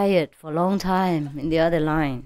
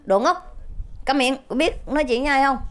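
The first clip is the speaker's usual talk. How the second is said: mock shout; 7 semitones higher than usual. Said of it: "ông hét lên".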